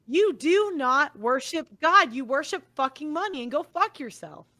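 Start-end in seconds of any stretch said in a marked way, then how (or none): 0.1-2.1 slow angry emphasis. Real, not acted. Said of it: "that's what makes me mad".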